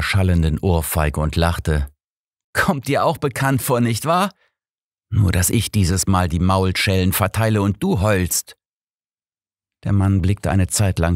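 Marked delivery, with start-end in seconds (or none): 2.5-8.6 a lightly voiced captor, sneering, higher at the start; a touch of cruel mockery; mocking captor. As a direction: gloat over the weeping old man. Kidnapper mocks the weeping father.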